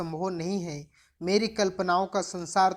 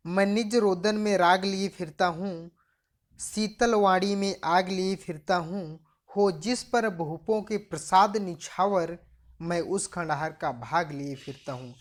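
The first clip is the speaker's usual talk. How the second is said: poem recitation. Acted. Teacher reciting Bachchan's poem to students, measured poem recitation. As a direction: recite line by line with pauses.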